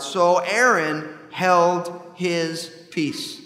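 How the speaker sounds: slow, measured Bible reading; solemn reading of scripture to a congregation. Acted. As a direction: read the verses with weight and care. Reads Leviticus ten aloud.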